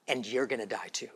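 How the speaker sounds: softly, almost under the breath; hushed. Acted. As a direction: let it fall quiet and ominous. Repeats line, first hushed.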